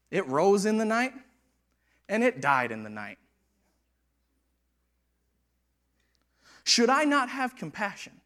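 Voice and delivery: voice of the Lord. Acted. God answering Jonah about Nineveh, solemn and measured. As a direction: speak as God reasoning with Jonah. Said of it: "Then the Lord said".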